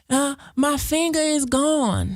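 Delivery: mock crying caller.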